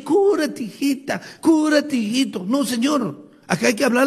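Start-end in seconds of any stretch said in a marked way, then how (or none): 0.0-2.4 doctor mimoso fingido. Acted. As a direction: coax like a doting doctor, lilting. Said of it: "Te va a decir". (doctor zalamero, en tono de burla)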